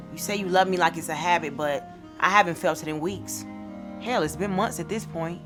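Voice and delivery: loud, emphatic spoken-word complaint; hurt reproach. Acted. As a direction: confront a partner who has neglected you, pushing the key words. Poem confronting a neglectful boyfriend.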